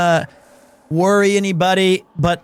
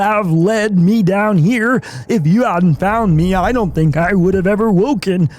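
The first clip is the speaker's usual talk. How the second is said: nerdy character voice; 3 semitones higher, slower than usual. Acted. Streamer voicing a game character as a nerd. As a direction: play a timid, polite nerd. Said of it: "we're gonna give him his nerd voice".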